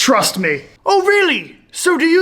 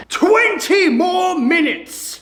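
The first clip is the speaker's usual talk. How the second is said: stern; 5 semitones higher, slower than usual. Acted. Teacher punishes talking.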